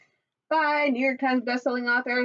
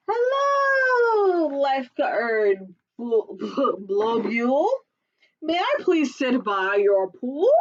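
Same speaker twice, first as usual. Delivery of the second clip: Sasquatch voice; slower than usual. Acted. Sasquatch asks the lifeguard, politely nervous. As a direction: ask politely to sit by the pool. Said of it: "Like he says".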